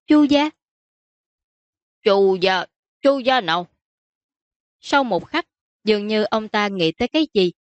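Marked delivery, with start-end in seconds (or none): 0.1-0.5 high, louder short answer; daughter's voice, pitched well up; admitting princess. Acted. Princess admitting to her father who was attacked, high-pitched. Daughter reluctantly names the family. 2.0-3.7 lightly voiced puzzled father; puzzled prince. Prince asking his daughter which family, mildly puzzled.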